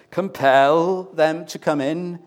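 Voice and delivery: Compel drawn out slow and weighty; stress on Compel. Shown as a demonstration. Preacher quoting the text to the church, stress on Compel. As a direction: lean hard and slowly on Compel. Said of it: "emphasize the word compel".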